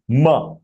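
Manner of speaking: "Ma" with its short a fully sounded; full syllable. Shown as a demonstration. Teacher showing students that "Ma" keeps its short vowel. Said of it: "Ma is full".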